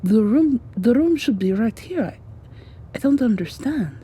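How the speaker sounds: alarmed confusion. Acted. Acted search, the room is missing.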